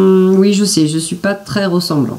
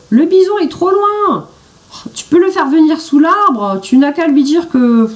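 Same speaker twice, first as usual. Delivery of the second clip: shouting; 9 semitones higher than usual. A narrator's reading. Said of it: "crie-t-il".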